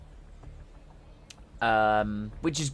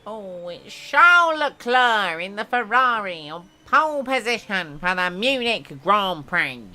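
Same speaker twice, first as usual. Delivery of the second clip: put-on higher, slowing French accent announcer; 6 semitones higher, 4 dB louder than usual. Announcing Leclerc on pole in a hammed French accent. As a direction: announce it like a French race commentator. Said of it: "I don't know why he gave him a French accent".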